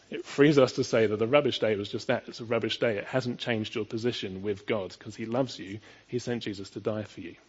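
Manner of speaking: normal talking voice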